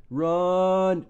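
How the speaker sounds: sudden alarmed yell; panicked shout. Real, not acted. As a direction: yell it as you flee.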